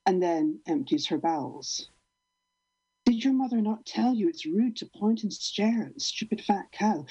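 measured, deadpan poem recital; poem reading. Acted. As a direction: read each line like a slam poem. Reads her cow poem.

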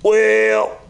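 "Well" held long and high; slow, high "Well" that hangs in the air; long drawn-out "Well". Retold or imitated. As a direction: stretch "Well" out before the story. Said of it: "does, like, a long well".

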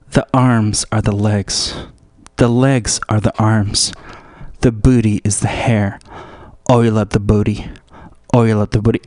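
low-pitched deliberate chant. Acted. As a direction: recite each line low and evenly. Low slow recited lines.

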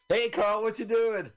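high, loud cartoon duck voice; duck impression. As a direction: call out like a squawky little duck. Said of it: "Did you hear my duck impression".

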